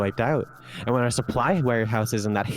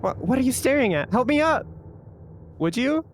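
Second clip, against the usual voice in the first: indignant high voice; 10 semitones higher than usual. Acted. Character demanding help.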